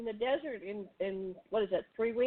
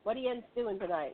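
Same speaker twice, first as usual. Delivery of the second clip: Pennsylvania Dutch accent; 4 dB quieter than usual. Shown as a demonstration. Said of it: "the Pennsylvania Dutch would say".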